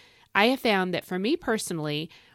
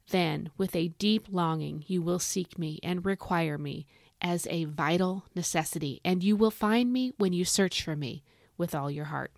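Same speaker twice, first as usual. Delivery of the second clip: slower reread; 2 semitones lower than usual. Acted. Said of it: "I'm gonna read that one more time".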